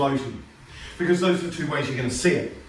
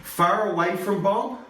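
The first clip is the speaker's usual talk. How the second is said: slow drawn-out phrase; 3 semitones higher, slower than usual. Shown as a demonstration. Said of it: "the image that you want in your head".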